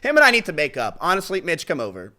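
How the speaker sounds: high, very loud, breaking into laughter; loud, laughing joking. Real, not acted. Streamer jokingly inviting his rival over, loud and laughing. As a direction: crack up while calling out loudly.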